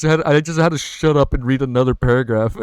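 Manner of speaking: real, loud excited exclamation; thrilled outburst. Real, not acted. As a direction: exclaim it loudly, blown away. Thrilled reaction right after the climax.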